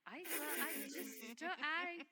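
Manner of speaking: high, slow, flustered stammering. Acted. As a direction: stammer in high-pitched confusion.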